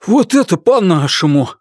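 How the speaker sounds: loud, high approving cry; approving cheer. A narrator's reading. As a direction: cheer the plan on. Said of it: "одобряет Монгберг". (одобрительный возглас)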